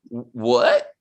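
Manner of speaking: low, stammered "what" that rises; mock bafflement, starting low and lifting; baffled. Reviewer reacting to the friend's dismissal, baffled.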